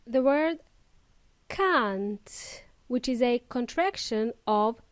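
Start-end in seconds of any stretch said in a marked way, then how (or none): 1.5-2.6 CAN'T with a drawn-out vowel; slow, lengthened CAN'T; long vowel. Shown as a demonstration. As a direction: model CAN'T slowly for learners. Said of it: "It's a long, uh, sound".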